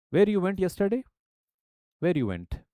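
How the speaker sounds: Indian English Where you went, Where starting high and rising; Indian English question. Shown as a demonstration. Teacher imitating how Indians ask a question. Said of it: "So I would say".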